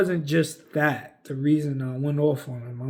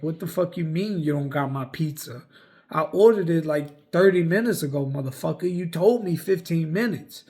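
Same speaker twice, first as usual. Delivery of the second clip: louder heated retelling of the rant at the clerk; retold angry rant; 2 semitones higher, 3 dB louder than usual. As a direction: half-shout it like you're telling off the clerk again. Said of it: "trying to get out my frustration".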